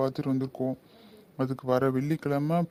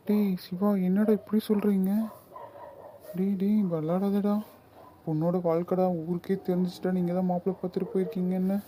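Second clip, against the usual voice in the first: alarmed pleading; 3 semitones higher than usual. Acted. Pleading after wedding called off.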